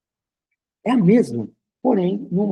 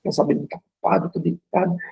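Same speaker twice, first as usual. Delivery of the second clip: higher-pitched, hammed-up panic; desperate; 3 semitones higher than usual. Driver apologising after rear-ending you, mock desperate. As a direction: play a distraught, guilty driver. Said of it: "já desce desesperada".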